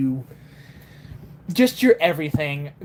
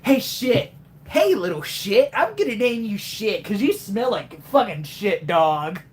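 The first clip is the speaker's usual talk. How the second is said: playful mock Sonic greeting; 3 semitones higher than usual. Sonic voice teasing a little pet, lightly put on. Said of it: "When you said Chip, I thought you said shit".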